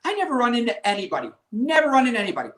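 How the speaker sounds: inner grumble. Retold or imitated. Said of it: "I'm thinking this on my phone".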